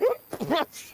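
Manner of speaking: vomiting. Acted. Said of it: "Please make that puking sound again".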